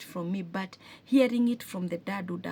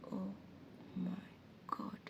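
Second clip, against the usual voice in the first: hushed whisper of realisation; whispered oh my God; shocked whisper; 13 dB quieter than usual. Retold or imitated. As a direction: breathe it out as it dawns on you. Shocked realisation, retold to viewers.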